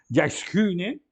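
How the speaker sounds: "Diaskunen" run together as one word, DIAS-ku-nen; read as one word. Shown as a demonstration. Teacher shows students to read it all together, fluent. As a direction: say "Diaskunen" in one smooth breath. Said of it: "tem que ler tudo junto".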